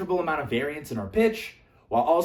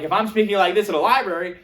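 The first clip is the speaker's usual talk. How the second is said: brisk, raised, loud voice; too loud for a library; 5 semitones higher, 8 dB louder, faster than usual. Shown as a demonstration. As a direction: speak up far too much for the room. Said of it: "I'm gonna get kicked out very quickly".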